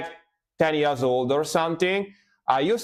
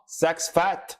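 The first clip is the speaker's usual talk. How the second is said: Scottish accent; 4 semitones higher than usual. Shown as a demonstration. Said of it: "with the Scottish accent".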